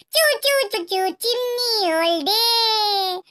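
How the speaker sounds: slow, sing-song story recital; memorized recitation. Pretend. Child reciting the village story to grandma, sing-song. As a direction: chant it like a learned poem. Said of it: "पाठ केला आहे ना?".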